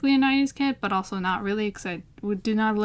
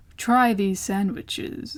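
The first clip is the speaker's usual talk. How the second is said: put-on creepy voice.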